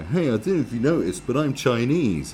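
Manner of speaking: mock a hacky comic proudly announcing himself; punched-up parody of a lazy stand-up bit; hack comic opener. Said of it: "Come out and go".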